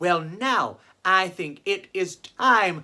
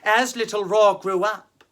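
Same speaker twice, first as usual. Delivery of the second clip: story narration; slower than usual. A narrator's reading. Reads a children's story.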